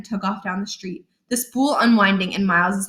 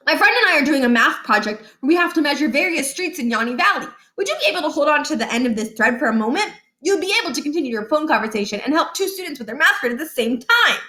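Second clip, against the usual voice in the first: fast polite pitch; 5 semitones higher, faster than usual. Acted. Boy sweet-talking a stranger.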